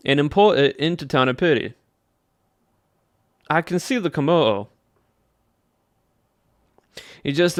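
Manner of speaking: put-on playful country Southern accent. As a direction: muse like a Southern cowboy. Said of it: "I'm gonna be talking like this".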